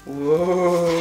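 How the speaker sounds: effortful wow while pulling; strained exclamation mid-effort; straining wow noise. Real, not acted. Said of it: "Je vais arrêter de faire ce bruit". (wow forcé dans l'effort)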